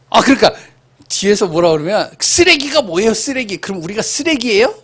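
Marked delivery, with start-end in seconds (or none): 2.2-4.7 put-on high protesting children's voice; mock outraged kids, much higher; indignant kids. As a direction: squeal it like an offended child.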